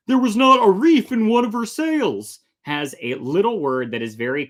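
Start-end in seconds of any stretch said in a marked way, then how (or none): 0.1-2.4 pirate voice. Acted. Reads the pirate quote aloud.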